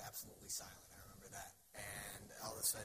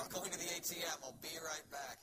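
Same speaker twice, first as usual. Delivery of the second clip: tag; 6 semitones higher, 5 dB louder than usual. Acted. Calling out while leaving, acted.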